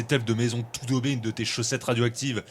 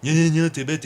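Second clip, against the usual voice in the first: mocking mimicry; 4 semitones higher than usual. Mimics the teasing companion.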